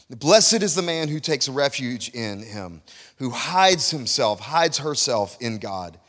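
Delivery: slow, deliberate verse reading; scripture reading. Acted. Preacher reading a psalm to the congregation, slow and measured. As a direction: read the verse out slowly, phrase by phrase.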